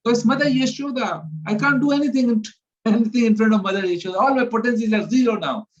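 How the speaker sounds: a mock-tearful scolding of a little brother; Balram's helpless lament. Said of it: "And Balram also starts to cry".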